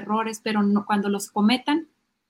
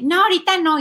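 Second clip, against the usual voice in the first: high, loud mock refusal; negativa infantil; 7 semitones higher, 7 dB louder than usual. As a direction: refuse like a reluctant kid. Niño se niega a ayudar. (negativa fingida de niño, aguda)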